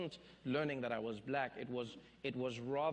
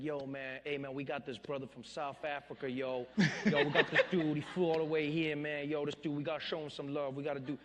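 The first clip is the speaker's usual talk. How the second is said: hype host intro; 4 dB louder than usual. Retold or imitated. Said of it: "the introduction was just like".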